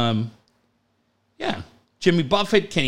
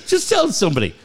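laughing retelling; 3 semitones higher than usual. Retold or imitated. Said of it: "I go".

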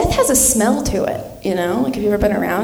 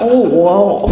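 low, drawn-out exclamation; dying grandma; 5 semitones lower, 4 dB louder than usual. Retold or imitated. Grandma's last words on seeing picture, low awe. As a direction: reprise the deathbed line, pitched down.

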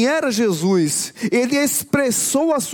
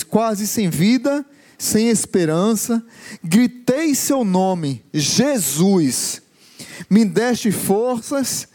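slow, lowered recitation in phrases; reciting song lyrics; 4 semitones lower, slower than usual. Acted. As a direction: recite it line by line, slowly and low.

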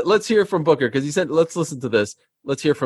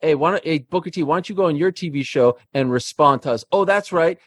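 wrestling promo; 3 semitones higher than usual. Acted. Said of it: "cut a promo".

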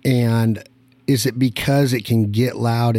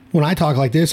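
mock Southern; 5 semitones higher than usual. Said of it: "I'm regular from Nevada".

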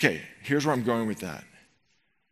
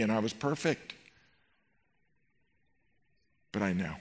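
tender Jesus; 3 semitones lower than usual. Acted. Jesus voiced tenderly to the hurting.

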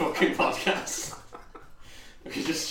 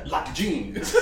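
higher pitch, words breaking into laughter; laughing echo; 7 semitones higher, 3 dB louder than usual. Real, not acted. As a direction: repeat it through helpless giggles. Laughing while echoing the joke line.

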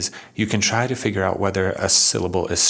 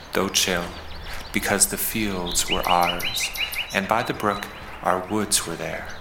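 measured poetry recital with pauses between lines; unhurried, understated verse reading; poem reading. Acted. Reads the poem aloud.

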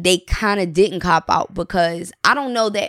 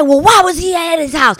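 imitating Jason; 9 semitones higher, 5 dB louder than usual. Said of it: "'Cause he said".

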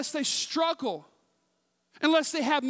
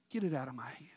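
teasing whisper; 10 semitones lower, 10 dB quieter, much faster than usual. Retold or imitated. Challenges child in a retold game.

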